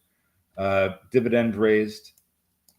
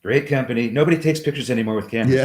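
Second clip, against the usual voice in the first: Trump voice; 3 semitones higher, 4 dB louder, faster than usual. Acted. Answers in Trump-style riff.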